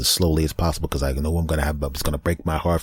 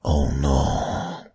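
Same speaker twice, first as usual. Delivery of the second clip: mock despair; 3 semitones lower than usual. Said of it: "I repeat".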